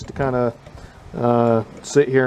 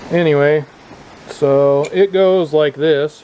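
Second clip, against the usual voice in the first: raised voice outdoors, slowed; shouting over wind; 3 semitones higher, 4 dB louder, slower than usual. Real, not acted. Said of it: "Hopefully you can hear me over this wind".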